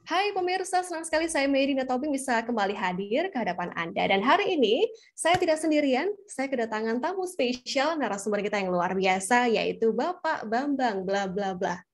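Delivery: relaxed, fluent TV host greeting; calm host demo. Shown as a demonstration. Host introducing a special guest, calm and unhurried. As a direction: greet viewers smoothly, slowing into the guest's name. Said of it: "lebih tenang".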